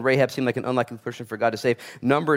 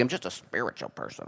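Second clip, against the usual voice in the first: soft mock spiritual type; 6 semitones lower, 12 dB quieter than usual. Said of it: "there's just spirituality".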